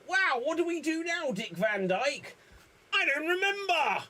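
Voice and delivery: put-on very high child voice; high childish question; eager kid. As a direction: squeak like a curious child. Kid asks Dick Van Dyke.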